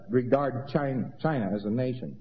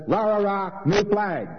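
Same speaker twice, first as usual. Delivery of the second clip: mock cheer; 8 semitones higher, 4 dB louder, slower than usual. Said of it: "somebody comes along and says".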